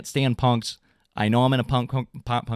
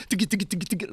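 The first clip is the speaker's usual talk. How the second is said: drum imitation; 6 semitones higher, 5 dB quieter, much faster than usual. Shown as a demonstration. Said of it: "like, double time".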